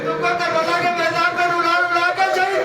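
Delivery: a lightly voiced father begging his son not to weep, in chanted lament; grieving father's plea. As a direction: plead gently but rising, as Ali to Husain. Ali consoling Husain, voiced.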